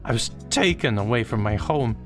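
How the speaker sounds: a ghost's long-held grief bursting out; grieving little ghost. Acted. Boogie tells Slushy about being taken from his mother.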